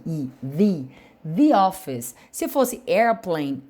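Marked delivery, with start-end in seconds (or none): 0.0-2.2 the said as dee before office; the before a vowel. Shown as a demonstration. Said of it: "a pronúncia muda pra i".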